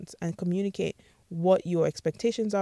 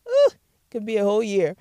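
teasing laugh; 4 semitones higher, 6 dB louder than usual. Real, not acted. Jokes about a year without sex.

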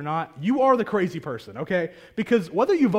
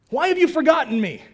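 higher, louder anguished cry to God; 7 semitones higher, 7 dB louder, faster than usual. Retold or imitated. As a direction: call it out like a psalmist pleading. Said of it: "he cries out and says".

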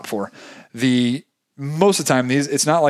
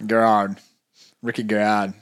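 Australian accent; 3 semitones lower than usual. Shown as a demonstration. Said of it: "That was a terrible Australian accent".

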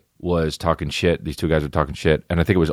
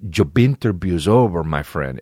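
movie bad guy. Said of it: "He says".

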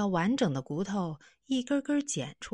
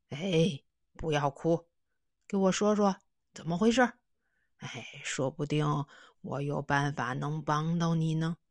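put-on kindly old man. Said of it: "和蔼地笑了".

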